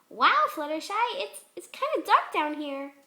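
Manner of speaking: stammering in the dark; mild unease; uneasy Pinkie. Acted. Pinkie voiced in story.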